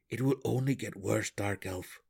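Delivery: calm, measured gnome voice. A narrator's reading. Belwer answers Drizzt's grimace, calm. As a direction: answer calmly, holding steady. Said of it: "Belwer said calmly".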